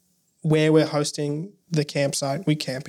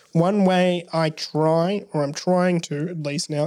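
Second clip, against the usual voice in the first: "try" and "trying" drawn out slowly for emphasis; stress on trying; slower than usual. Real, not acted. Speaker admitting the effort to interviewer, stress on "trying". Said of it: "emphasis on trying".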